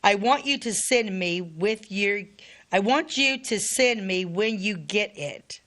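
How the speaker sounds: deliberate reading, with pauses between sentences; letter reading. Acted. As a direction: read an old letter aloud phrase by phrase. Continues reading soldier's letter.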